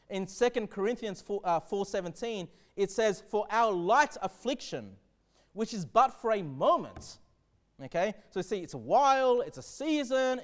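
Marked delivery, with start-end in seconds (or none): 3.3-7.2 slow, measured reading of the verse; solemn scripture reading. Acted. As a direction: read it out slowly like holy text.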